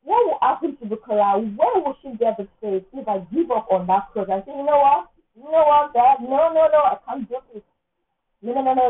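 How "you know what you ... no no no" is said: loud, high refusal to God; loud dramatic no to God. Pretend. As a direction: throw it up to God, overwhelmed. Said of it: "being dramatic".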